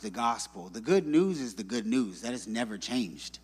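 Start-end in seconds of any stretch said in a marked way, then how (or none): 0.0-0.7 "gospel" said softer and dismissive, in air quotes; ironic small gospel. Shown as a demonstration. Pastor mocking the watered-down gospel, ironic. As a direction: drop "the gospel" like a lowercase label. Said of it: "lowercase with quotations and italicized".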